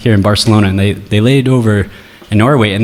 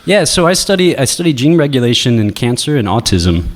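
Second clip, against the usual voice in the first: high put-on voice. Shown as a demonstration. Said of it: "Whoa, that's more like it".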